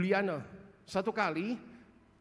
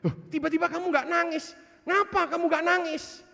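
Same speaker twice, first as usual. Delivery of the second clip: higher and louder, puzzled; surprised question; 9 semitones higher, 4 dB louder than usual. Retold or imitated. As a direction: ask her, startled that the crying stopped. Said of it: "Saya cuma tanya".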